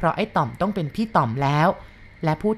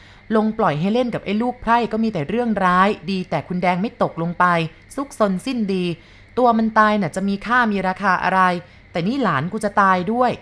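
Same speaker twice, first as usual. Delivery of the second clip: higher, louder scolding of a haughty mistress; acted fury at the lowborn boy, pitched up and loud; angry scolding cry; 3 semitones higher, 3 dB louder than usual. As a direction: berate the servant boy, voice raised high. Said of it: "แกร้องว่า".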